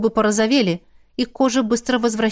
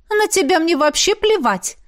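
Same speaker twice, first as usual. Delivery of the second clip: bluntly frank; 8 semitones higher than usual. A narrator's reading. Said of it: "откровенно сказала Равена".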